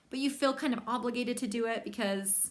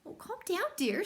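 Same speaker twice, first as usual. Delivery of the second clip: soothing; 8 semitones higher than usual. Acted. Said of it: "said Mama".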